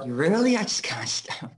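high, laughing "really?" in disbelief; mock disbelief. Fans praise his accent, so a high mock-incredulous laugh. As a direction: squeak it out, half laughing at himself. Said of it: "I was like".

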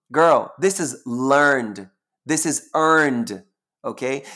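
slow, emphatic, sassy put-down. Real, not acted. Sassy reply to critics.

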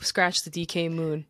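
hushed whisper aside; secretive whispered correction. Real, not acted. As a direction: whisper it so only friends hear. Quiet aside about the moon.

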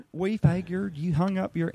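high-pitched but restrained Southern character voice; a lighter, Diet Coke version of the hokey Southern voice; milder Southern accent. Shown as a demonstration. Actor demonstrating his TV deputy's early voice, milder Southern. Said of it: "it started out with".

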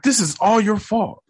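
a hint of an angry woman; lady's accusing voice. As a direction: voice the lady blaming him. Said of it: "and she like".

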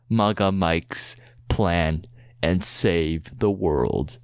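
slow, dramatic trailer read; movie trailer voice. Acted. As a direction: build the epic stakes slowly. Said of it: "in a movie trailer voice".

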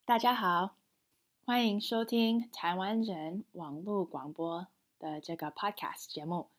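scripted bilingual show opening; podcast intro. Acted. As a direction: welcome the listeners as a podcast host.

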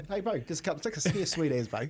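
a relaxed Kiwi "sweet as, bro"; broad kiwi accent. Retold or imitated. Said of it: "That's the Kiwi way".

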